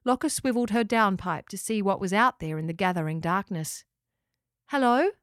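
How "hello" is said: raised, questioning call. A narrator's reading. Locker calls toward a rustle in the bushes, calling out. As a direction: call into the dark to see who's there. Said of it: "Locker called".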